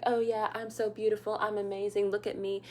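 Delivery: lightly mocking a conceited classmate bragging; mocking a vain girl. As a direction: lightly sneer it like a self-admiring teen. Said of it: "she was always like".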